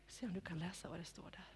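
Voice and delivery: fast whispered prompt; quick whisper. Real, not acted. Leader prompting Ester to read the card, whispered. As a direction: rush a whisper to the helper.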